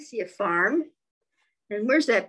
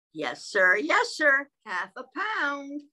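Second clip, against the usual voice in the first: goose answers; 5 semitones higher, slower than usual. Acted. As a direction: answer cheerfully with a jump.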